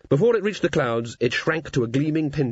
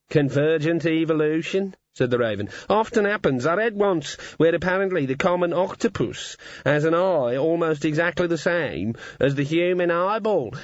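raspy cawing crow; 4 semitones higher than usual. Acted. Raven lecturing.

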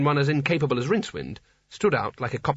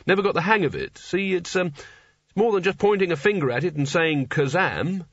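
higher, hedging character voice; reluctant wizard Rincewind; 5 semitones higher than usual. Acted. Rincewind explains his poor magic to Nigel, hedging reluctantly. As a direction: play an inept wizard making excuses.

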